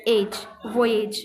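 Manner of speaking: वोएज said slowly, vo-ej; careful slow demo of वोएज; slow model word. Shown as a demonstration. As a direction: drag वोएज out syllable by syllable. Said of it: "वी और जे बनेगा".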